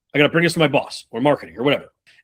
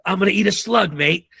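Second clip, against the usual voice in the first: lightly put-on British adventurer accent, higher; a mild mock British survivalist, pitched up; Bear Grylls impression; 5 semitones higher than usual. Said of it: "he's like".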